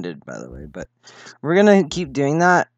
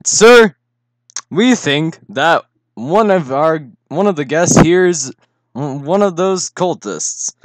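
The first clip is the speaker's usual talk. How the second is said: urgent messenger voice; 3 semitones higher, 5 dB louder than usual. Acted. Voicing a worried villager NPC.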